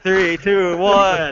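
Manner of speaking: lightly hammed-up countdown. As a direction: count it down like a launch. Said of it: "I'm doing a countdown".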